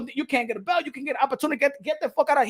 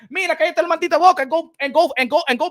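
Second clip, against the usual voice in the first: angry rant; 3 semitones higher, 4 dB louder, faster than usual. Real, not acted. Telling complainers to shut up.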